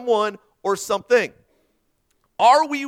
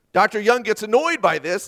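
normal talking voice

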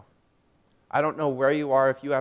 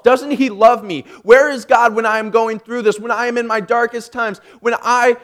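loud, raised, impassioned demand; anguished question; 7 semitones higher, 10 dB louder than usual. Retold or imitated. Reading out own desperate question to God, anguished pleading. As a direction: plead urgently, pressing harder with each question. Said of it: "My question was".

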